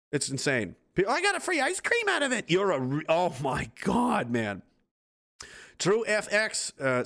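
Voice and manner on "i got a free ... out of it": mock dumb sellout voice.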